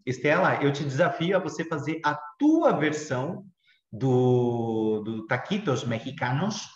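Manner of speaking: put-on Portuguese with a light Spanish accent; playful hint of a Spanish accent. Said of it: "Eu tô falando até com sotaque espanhol aqui".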